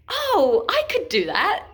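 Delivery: high, mock-confident kid bragging; cocky boast. Child boasts to friends about the high dive, mock cocky. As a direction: brag breezily as your younger self.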